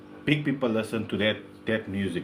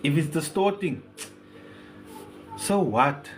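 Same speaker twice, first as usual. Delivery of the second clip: gangster answer; 3 dB quieter than usual. Acted. Host giving the gangster answer to a question, lightly gangster. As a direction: give it a touch of gangster swagger. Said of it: "I'll give you the gangster".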